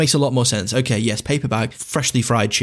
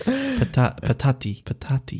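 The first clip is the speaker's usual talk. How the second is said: put-on Italian accent; 3 semitones higher, 3 dB quieter, slower than usual. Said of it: "in an Italian accent".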